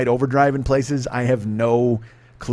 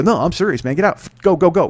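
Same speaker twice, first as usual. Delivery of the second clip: brisk mock-serious order, voice raised; deadpan teasing; 5 semitones higher, 4 dB louder than usual. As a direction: shoo them out as if serious. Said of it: "might not be teasing".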